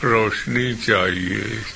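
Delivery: restrained, imploring close of a poem; understated pleading. Acted. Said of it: "फिर उसी दर्द से गिड़गिड़ाने लगा".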